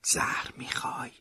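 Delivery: breathy whisper close to the ear; whispered in his ear. A narrator's reading. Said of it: "در گوشش گفتم".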